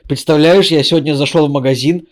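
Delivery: voicing Chandler. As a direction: act out Chandler's amazed complaint. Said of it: "Чендлер говорит такой".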